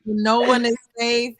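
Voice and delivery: loud, ominous movie-trailer line; horror trailer voice. Pretend. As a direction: boom it out like a horror trailer tagline. Echoing the dramatic title.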